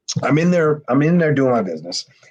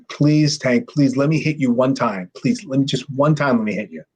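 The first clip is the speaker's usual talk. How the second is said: lightly imitated pleading; understated repeated begging. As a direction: plead insistently, retelling it. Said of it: "gets down on his hands and knees".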